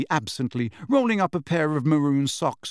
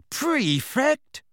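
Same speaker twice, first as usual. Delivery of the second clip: much higher disbelieving question, rising sharply; incredulous; 12 semitones higher than usual. A narrator's reading. Fred repeats what the letter says, incredulous. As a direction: echo it in sheer disbelief. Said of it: "staring incredulously at the letter".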